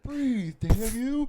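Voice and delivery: high, loud cartoon lobster yell; Larry the Lobster. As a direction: bellow it like a beefy cartoon hero. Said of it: "pulled a Larry the Lobster".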